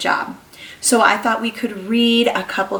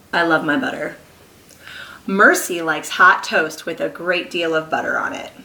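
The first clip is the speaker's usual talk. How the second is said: lively picture-book read-aloud; reading to children. Acted. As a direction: read to a class of small kids. Reads picture book to class.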